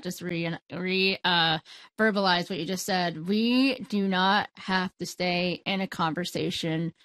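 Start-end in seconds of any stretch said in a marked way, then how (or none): 3.3-6.9 slow, measured restatement; slow, deliberate. Real, not acted. Host repeats guest's point so it lands, slow and deliberate. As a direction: take your time over each word. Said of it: "take some time with that".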